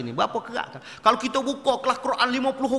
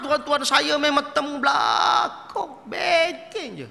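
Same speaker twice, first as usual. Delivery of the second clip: emphatic; 3 semitones higher, slower than usual. Real, not acted. Preacher stressing how fierce Arab teachers are, slow emphatic. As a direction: drive the point home slowly. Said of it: "describing fierce teachers".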